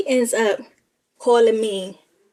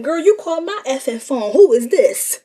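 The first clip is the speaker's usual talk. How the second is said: mild mock attitude; 4 semitones higher, 6 dB louder than usual. She answers a stranger's call.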